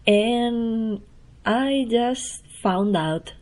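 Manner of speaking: ordinary talk, nothing marked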